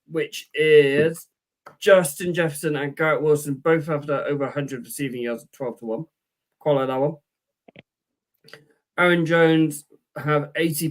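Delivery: put-on Welsh accent, lightly done. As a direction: read the bets in a mild Welsh accent. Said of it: "I'm gonna try and talk in my best Welsh accent".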